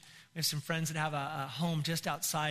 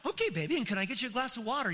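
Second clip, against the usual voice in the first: higher-pitched, doting reply; eager sweet husband; 3 semitones higher, faster than usual. Retold or imitated. Newlywed husband answering wife at night, sweetly eager. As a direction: play the adoring newlywed, eager to please.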